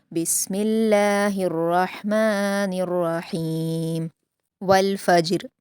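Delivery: slow, melodic Quranic recitation; measured Quran recitation; tajweed recitation. Shown as a demonstration. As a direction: recite it slowly and carefully as a model for students. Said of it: "सूरतुल फ़ज्र को मा तजवीद पढ़ते हैं".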